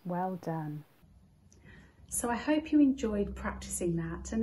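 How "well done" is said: measured guided relaxation with lifted counts; guided body scan. Acted. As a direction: talk them through tensing, then let each release drop. Repeats the body scan exercise.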